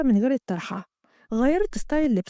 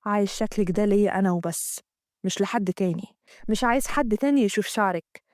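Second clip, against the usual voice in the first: Amgad; 4 semitones lower than usual. Acted. Amgad voiced in the story.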